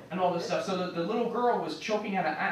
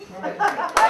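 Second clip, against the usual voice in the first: high, loud call to friends; 12 semitones higher, 5 dB louder, faster than usual. Pretend. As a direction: shout it out across the street. Mock Italian call, second take.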